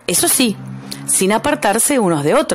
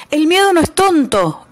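happy shout; 9 semitones higher than usual. A narrator's reading. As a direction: crow it out in triumph. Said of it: "gritó el bicho colorado, contento".

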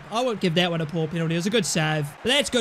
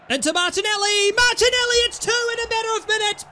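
mock commentator; 11 semitones higher, 3 dB louder than usual. Mock TV commentator call of goal.

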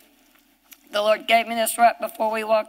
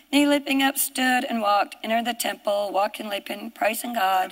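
unbelieving reading. Shown as a demonstration. Showing the congregation how unbelievers read the Bible, flat recital. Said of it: "here's how Pharisees, Sadducees, unbelievers read".

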